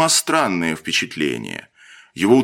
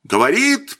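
much higher sarcastic echo rising; mocking mimicry; 11 semitones higher than usual. A narrator's reading. Captain mocking the lieutenant's excuse. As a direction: parrot the word scornfully. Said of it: "передразнил Маслов".

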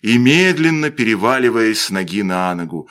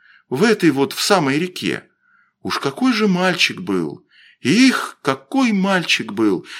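put-on slightly raised, lilting storyteller boy; lightly voiced village boy, mournful; 5 semitones higher than usual. Костя tells the boys of drowned Вася, lightly mournful. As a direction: tell it with wistful feeling.

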